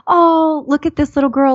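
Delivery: high-pitched "aww, look" gushing; cooing plea. Retold or imitated. Wife texting husband a little girl's picture, high cooing.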